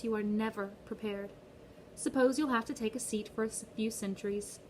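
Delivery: sweet, cold British-tinged guard; lightly accented, mocking patience; Charon's British accent.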